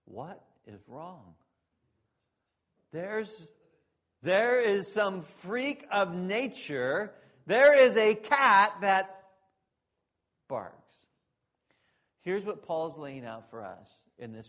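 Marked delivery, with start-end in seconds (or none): 0.0-10.8 slow, swelling cry of disbelief; astonished bystander. Retold or imitated. Onlooker shocked by a barking cat, slow and rising. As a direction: build from a hush to a loud slow gasp of amazement. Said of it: "you'd just step back and go".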